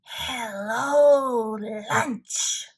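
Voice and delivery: sly, hungry snake voice. Acted. Snake greeting Frog and Toad as lunch, sly and hungry. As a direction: greet them like a meal.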